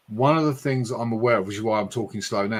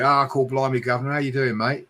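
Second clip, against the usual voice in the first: London cockney; 3 semitones higher than usual. Retold or imitated. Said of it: "in London it's a bit of the".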